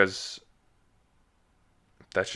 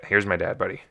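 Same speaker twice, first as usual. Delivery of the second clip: slightly lower, more nasal dad. Shown as a demonstration. Son demonstrates his dad's voice to listeners, slightly nasal. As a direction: lightly imitate your dad, a touch nasal. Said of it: "a little more nasally and a little, a little lower".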